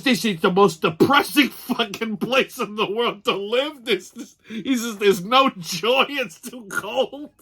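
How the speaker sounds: a touch of hammed-up misery; mock despair. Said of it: "He goes".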